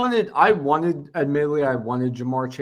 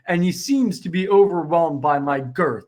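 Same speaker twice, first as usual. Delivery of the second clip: slow, louder mock commentator quote; Skip Bayless; 3 semitones higher, 5 dB louder than usual. Quoting a clip to tease his co-host, mock pundit delivery. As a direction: lightly imitate a pundit, weighing out each word. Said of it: "Skip Bayless, where, and he's like".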